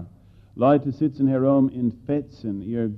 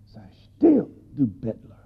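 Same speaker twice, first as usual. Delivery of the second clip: crowd hushing. Acted. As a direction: snap at the beggar to shut up. Crowd silencing the beggar.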